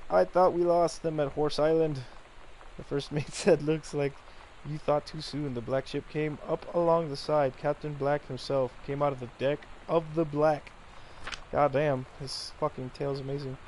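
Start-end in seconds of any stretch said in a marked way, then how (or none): 0.1-2.0 mock yell. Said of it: "She yelled". 2.8-10.7 put-on reading a kid's pirate story aloud; storyteller voice, playful.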